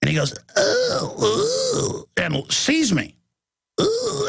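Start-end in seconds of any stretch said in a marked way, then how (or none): 0.6-2.1 very high, drawn-out mocking ooh; imitated squeamish high-pitched moan; mock trendy call. Trendy catching sight of him, mock high ooh. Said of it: "they make that as their, as their call". 3.8-4.3 high drawn-out imitated ooh; mock trendy ooh. Trendy seeing the host, mimicked high ooh. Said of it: "actually makes a little".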